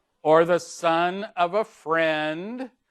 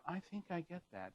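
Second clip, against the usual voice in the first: breathless; 4 semitones higher, 18 dB quieter than usual. Shown as a demonstration. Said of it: "raise the voice ... sense of breathlessness".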